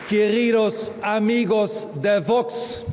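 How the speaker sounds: loud crowd greeting. Real, not acted.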